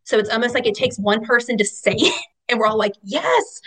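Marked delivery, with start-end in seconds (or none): 3.0-3.6 much higher, laughing yes from the group; eager yes. Retold or imitated. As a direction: chime in, delighted. Group chorus agreeing enthusiastically.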